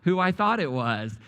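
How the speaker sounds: slow, drawn-out embarrassed apology; mortified apology. Retold or imitated. Apologizing after hugging the wrong person, mortified. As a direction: act out an awkward, emphatic sorry.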